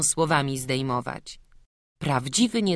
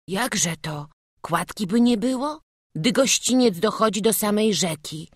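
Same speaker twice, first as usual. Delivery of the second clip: put-on higher boy voice with a whispered middle; frightened little boy; 6 semitones higher than usual. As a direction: worry at the dark river. Boy alone at night river.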